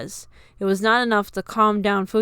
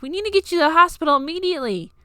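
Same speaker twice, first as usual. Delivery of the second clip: high, loud, fast panic; panicked; 9 semitones higher, 5 dB louder, much faster than usual. A narrator's reading. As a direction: rush it out in alarm. Panicked nurse urging hospital.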